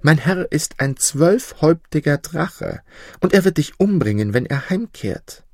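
a maiden's tearful warning about the dragon. Acted. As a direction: warn him in a rush, close to tears. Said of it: "Sie weinte".

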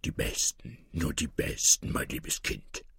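sly, hushed scorn, partly whispered; mock the child's innocence in a quiet, knowing voice; understated sneering wolf; scornful mockery. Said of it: "mit rechtem Hohn".

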